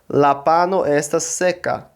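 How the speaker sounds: "La pano estas seca" said slowly and carefully; pronunciation demo. Shown as a demonstration. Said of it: "Vou pronunciar".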